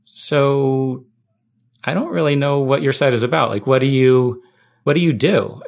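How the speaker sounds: awkward admission. Retold or imitated. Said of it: "admit, like".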